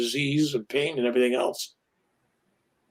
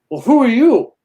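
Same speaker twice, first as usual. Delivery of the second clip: indignant emperor; 8 semitones higher, 8 dB louder than usual. Retold or imitated. Angry emperor demands an answer.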